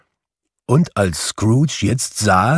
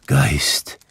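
low, whispered, meek Geist; humble whisper; 5 semitones lower than usual. Acted. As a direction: say Geist humbly, under your breath. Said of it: "sagte Scrooge demütig".

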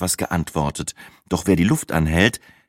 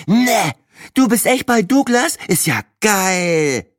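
much higher, louder thrilled character voice; excited weather troll; 3 dB louder, slower than usual. A narrator's reading. Breitling pops out of his poncho thrilled that Sina works at Douglas. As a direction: leap on the news, delighted. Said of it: "Kopf des Wettertrolls geradezu blitzartig aus dem Poncho".

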